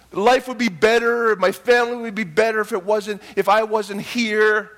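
acted poor-me lament; self-pity. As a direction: stretch it out like someone feeling sorry for themselves. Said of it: "walk in self-pity and just say".

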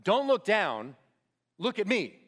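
steady, firm call to a scared climber; experienced climber steadying a panicking partner, firm; calm climber's urging. Retold or imitated. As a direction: hold his eyes and talk him through it. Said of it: "he's gonna say to that guy".

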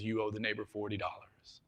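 lightly voiced deep-voiced dad. Dad telling his son of the debt, lightly deepened voice. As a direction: drop it a little, as a big father. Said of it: "his dad in the deep voice says".

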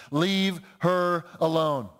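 slow, word-by-word stern command; firm defence. Retold or imitated. Preacher quoting Jesus defending this woman, slow and firm. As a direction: step in to defend her, spacing each word. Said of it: "Aggressively stepping in to defend".

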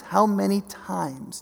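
"How many times?" drawn out slowly, each word weighed; slow it right down, "How many times?"; slow, weighty repeat. Shown as a demonstration. Preacher repeating Jesus' lament, slow and weighty. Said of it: "It literally says".

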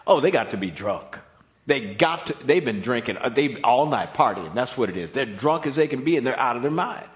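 half-hammed mocking bystander; mock scoffing crowd. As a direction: poke fun as a sneering onlooker. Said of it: "they surmise".

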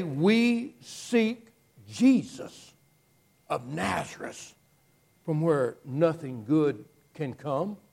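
slow, drawn-out sneer on we seek Jesus; mock the name with a light sneer; drawling the name like an insult. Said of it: "with a sneer almost".

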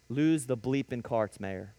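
a slow, low sergeant's curt order, lightly voiced; mock polite order. Sergeant ordering the new inmate to drop his carts, low and curt. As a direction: drag it out like a sneering sergeant. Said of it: "politely says".

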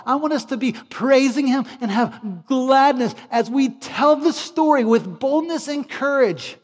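loud, high, driving sermon climax; impassioned, ringing exhortation; full-force preaching. Real, not acted. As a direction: preach it with rising fervour, punching each phrase.

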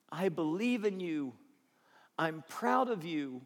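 tender reassurance. Shown as a demonstration. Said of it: "You can't say it enough".

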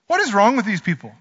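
fast, exasperated jab of a question; quick mock exasperation. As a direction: toss it off in disbelief. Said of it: "and you're like".

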